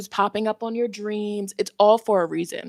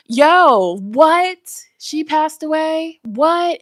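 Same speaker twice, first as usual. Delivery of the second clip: shocked disbelief; 7 semitones higher, 6 dB louder, much slower than usual. Real, not acted. Shocked reaction to celebrity death news.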